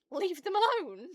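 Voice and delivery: loud, high yell at the ghost botherers; shouted command. Acted. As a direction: bellow it as an outraged protector. Scolding people who wake ghosts.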